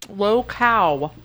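talking through ice cream; words round a big bite; mouth full. Real, not acted. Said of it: "I have ice cream in my mouth".

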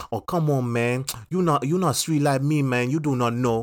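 fake American accent. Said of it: "speak to you with this weird".

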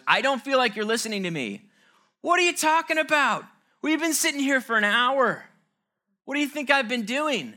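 high, loud indignant protest; mock-outraged partner pushing back at his wife; voicing the defensive partner. Spouse answering a complaint, loud and high indignant protest. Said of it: "our partner goes".

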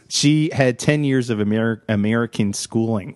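an accidental hint of a Scottish accent; drifting into a light Scottish lilt; slipped Scottish accent. Real, not acted. Host retelling her backstory, slipping into a light Scottish accent. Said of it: "Why did I say it like that?".

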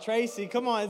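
high, loud cheer for Tracy; excited call-out to the crowd; hometown hype. Real, not acted. Hyping up his hometown.

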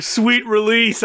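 drawn-out relieved sigh; slow relieved sigh. Retold or imitated. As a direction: breathe it out with relief, slowly. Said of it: "he was like".

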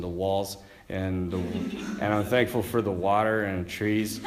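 lightly voiced small child listing things. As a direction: stammer through it like a little kid. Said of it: "Vinny's like".

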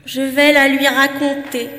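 slow, hollow cavernous voice. Acted. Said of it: "répondit d'une voix caverneuse".

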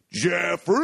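calling a name, rising; mock yell to wake a friend. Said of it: "he kept going".

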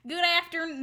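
failed Australian accent sliding Southern; Australian turned Southern. Shown as a demonstration. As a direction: attempt Australian, land in Southern. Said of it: "No, it's the Southern".

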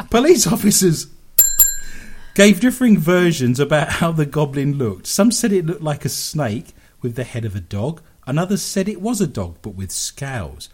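lively, emphatic radio story reading; story read aloud. Acted. Radio host reads listeners a goblin story, read-aloud voice. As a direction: read the odd news item with relish.

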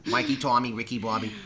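lightly put-on Boston accent; Boston accent attempt. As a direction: rattle off names with Boston vowels. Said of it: "It's that accent".

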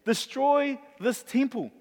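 slow, weighty Destroy; solemn declaration. Acted. Jesus declaring to the crowd, slow and weighty. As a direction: lean on "Destroy" slowly and gravely. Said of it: "He says".

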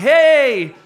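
big, loud, high-pitched mock hello; overeager greeting. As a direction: call out hammed-up to work the room. Acts fundraiser greeting people, walking around.

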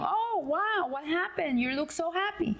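acted happy surprise; amazed delight. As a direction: exclaim it like a delighted friend. Friend greets happy man in joke.

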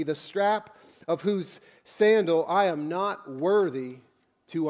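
measured, solemn Bible reading; scripture reading. Acted. Scripture reading before the sermon.

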